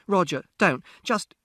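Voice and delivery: high, loud cry to stop him; pleading shout. A narrator's reading. Mother tries to stop father mid-argument, pleading shout. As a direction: cut him off with a desperate yell. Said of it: "And Mother shouted".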